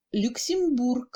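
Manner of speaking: "Luxembourg" with clear OU, brief middle E; brief reduced E. Shown as a demonstration. Teacher showing reduction, "Luxembourg" with brief E. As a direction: hold OU in "Luxembourg", shrink the middle vowel. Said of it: "le Y se prononce brièvement".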